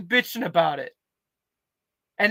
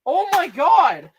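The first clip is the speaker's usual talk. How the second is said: high, loud yelling in disbelief; excited shouting; 10 semitones higher, 4 dB louder than usual. Real, not acted. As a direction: shout it out, totally thrilled. Thrilled at finding paper bags.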